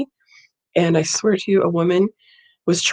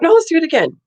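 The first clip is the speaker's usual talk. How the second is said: mock nurse; 10 semitones higher, 5 dB louder, faster than usual. Nurse voiced in retold exchange.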